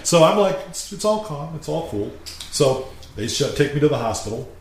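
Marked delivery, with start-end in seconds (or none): 0.7-2.1 soft, easy reassurance; very calm. Retold or imitated. Telling the paramedics all is fine, softly calm. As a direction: wave it all off gently. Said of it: "I go very, very calm".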